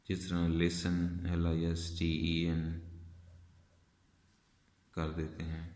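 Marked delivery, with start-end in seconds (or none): 0.5-1.3 "लिसन" with s running straight into n; silent T. Shown as a demonstration. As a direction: say "लिसन" for listen with no t sound. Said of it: "silent कर देते हैं टी को".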